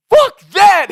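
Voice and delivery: high, loud defiant yell; yells back. Retold or imitated. Trey yelling back at the coach, defiant shout. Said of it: "yells back".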